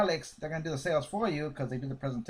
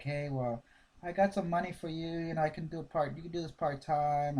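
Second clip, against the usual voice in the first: down and dull; 3 dB quieter than usual. Shown as a demonstration. Trainer showing the wrong way to pitch, flat and softer. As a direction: sell it like you don't care. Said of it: "Do not go in there with a frown or down".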